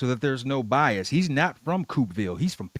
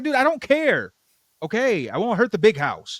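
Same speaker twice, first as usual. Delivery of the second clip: high, louder put-on duck voice; Duckman voice; 8 semitones higher, 4 dB louder than usual. Recapping the episode, voicing Duckman's high squawk. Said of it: "Duckman's just like".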